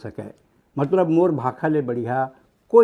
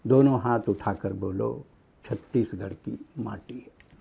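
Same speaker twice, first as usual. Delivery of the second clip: rhythmic verse building to a peak, then a hushed refrain; patriotic poem recital; 3 semitones lower than usual. Acted. (लय में कविता पाठ, अंत में धीमे)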